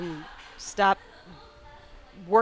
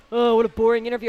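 louder imitated heckler; mimicked listener's gripe, pushed louder; mock complaint; 7 dB louder than usual. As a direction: fire back like an unimpressed listener. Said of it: "somebody will fire back".

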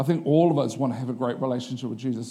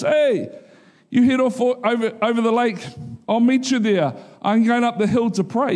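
lightly voiced Jesus; 7 semitones higher than usual. Jesus sends disciples away.

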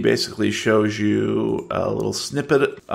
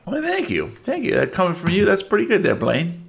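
Barfellow voice; 6 semitones higher than usual. Acted.

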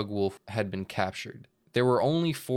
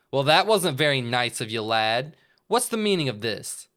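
louder, stern Santa; Santa boss voice; 3 semitones higher, 5 dB louder than usual. Acted. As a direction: scold like a big boss. Bug Santa speaks.

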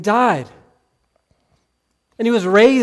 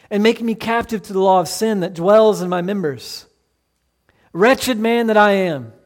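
earnest reading of Paul's words, building in force; scripture reading. Acted. Preacher reading Romans seven to the congregation, earnest. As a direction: read the apostle's confession with rising conviction.

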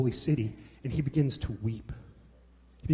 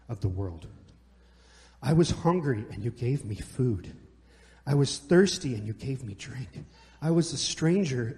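scripture reading; 2 semitones lower than usual. Acted. Reads scripture aloud.

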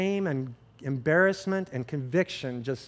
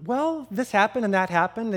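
tentative, higher-pitched retold reply; a little timid; 5 semitones higher than usual. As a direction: imitate a wife hesitantly starting to share. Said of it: "kind of a little timid".

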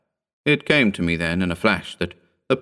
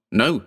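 "No" raised and stressed firmly; extraordinary emphasis; 4 semitones higher than usual. A narrator's reading. Voice refuses a boat for her, "No" stressed emphatically. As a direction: put firm emphatic weight on "No". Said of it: "with extraordinary emphasis".

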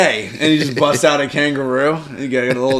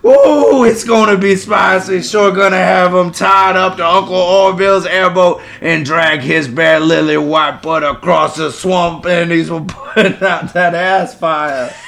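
put-on thick Cajun accent; 2 semitones higher than usual. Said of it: "hard accents".

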